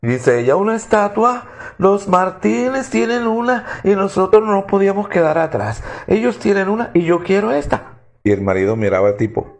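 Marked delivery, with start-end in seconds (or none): 0.6-7.9 higher, innocent wife's voice; wife covering up with a raised, innocent tone; bluffing wife. Acted. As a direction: play it as a sweetly feigned excuse.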